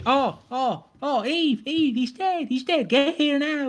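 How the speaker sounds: high-pitched, hammed-up panicked cries; mock panic. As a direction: squeal in pretend alarm. Acting a panicked call to Eve.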